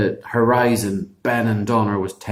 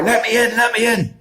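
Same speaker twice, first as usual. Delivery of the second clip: demanding giant; 10 semitones higher than usual. Acted. Giant banging on the door.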